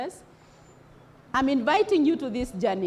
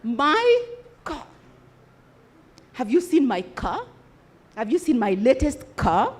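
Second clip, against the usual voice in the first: proud attitude. Shown as a demonstration. Teacher mimicking car owners bragging to friends, boastful. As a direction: boast about the new car. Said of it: "They say it with an attitude".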